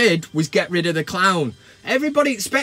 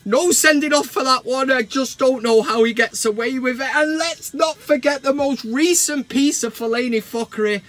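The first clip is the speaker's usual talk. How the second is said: higher and louder, a gleeful rant; excited rant; 5 semitones higher, 3 dB louder than usual. Acted. Host listing Fellaini's blunders to fans, gleeful and loud. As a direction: pile on the blunders with mounting glee.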